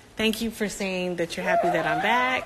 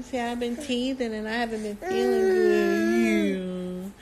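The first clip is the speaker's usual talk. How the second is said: put-on speaking for baby. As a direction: talk as if the baby is explaining. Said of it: "Brookie, you tell him".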